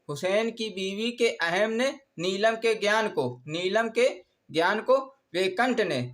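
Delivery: measured recital, phrase by phrase with pauses; mnemonic dictation. Shown as a demonstration. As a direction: recite it deliberately for note-takers. Dictates mnemonic for note-taking.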